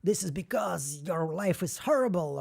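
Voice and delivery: slow, sneering comeback in a put-on voice; mock bitter youtuber. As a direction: play a petty creator snapping back at a hater. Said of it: "one of those guys like".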